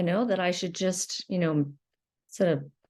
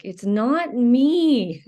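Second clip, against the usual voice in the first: mild real anger; 6 dB louder, much slower than usual. Real, not acted. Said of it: "when I start to feel angry".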